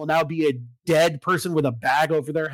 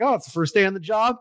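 quick, higher-pitched chipper new hire; mock chipper; 4 semitones higher, faster than usual. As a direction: imitate an eager first-day employee, lightly. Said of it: "you're all chipper".

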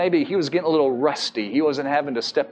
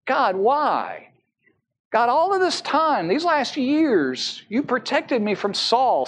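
higher, pleading David, lightly voiced; a hint of David's anguished plea; pleading why prayer; 5 semitones higher than usual. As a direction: ask God why, hurt and searching. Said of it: "David could have gotten stuck at the why question".

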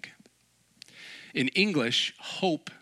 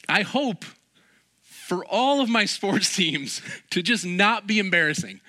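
laughing fan; 8 semitones higher, 5 dB louder than usual. Real, not acted. Sports fan hoping, laughing.

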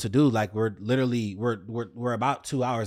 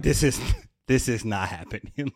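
laughing in disbelief. Retold or imitated. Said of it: "I'm laughing 'cause I'm just like".

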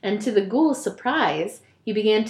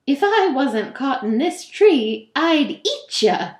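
ghoul voice; 4 semitones higher, 4 dB louder than usual. Acted. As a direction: growl the threat like a hungry ghoul. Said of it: "he cried".

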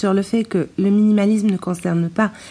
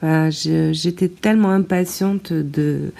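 thin, poor-quality tablet mic recording; speaking close to a failing mic; broken mic sound. Real, not acted. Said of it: "la qualité du son, mon micro vient de me lâcher".

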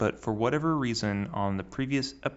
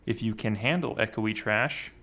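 echoey laptop mic; like it was recorded in a big hall. Real, not acted. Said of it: "my voice sounds like echoey trash".

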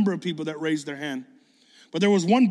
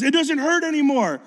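put-on high, loud excited kid; retold amazed cry; 10 semitones higher, 6 dB louder than usual. Acting out healed boy's amazed answer.

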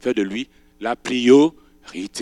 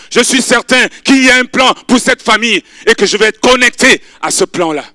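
raised, earnest plea; pleading young widow; 8 semitones higher, 10 dB louder than usual. Acted. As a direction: beg to stay with her. Ruth answers Naomi.

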